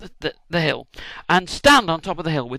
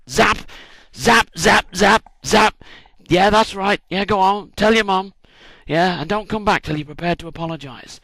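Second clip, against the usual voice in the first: loud, higher, delighted blasting; gleeful zapping; 4 semitones higher, 5 dB louder than usual. Pretend. Speaker imagining using the magic stick on enemies, gleeful loud taunting. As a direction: zap them all, enjoying it.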